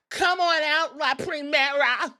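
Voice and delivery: hammed-up ring introduction, pitched high and projected; super excited introduction. Excited host introducing Stephanie to the crowd, hammed-up hype. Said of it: "is just super excited".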